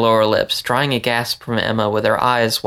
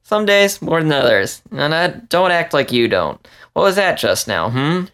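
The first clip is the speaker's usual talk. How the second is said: higher, sly male voice firing back; teasing comeback; 5 semitones higher than usual. Acted. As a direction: tease her right back, a touch smug. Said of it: "he shot back at her".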